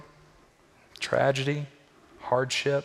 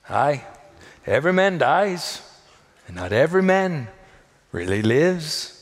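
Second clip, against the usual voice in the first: put-on a Braveheart Scottish accent, lightly done; a rousing Scottish brogue quoting William Wallace; 4 semitones higher, 6 dB louder than usual. Preacher quoting Braveheart to church, in a light Scottish accent. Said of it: "distracted by my Scottish accent".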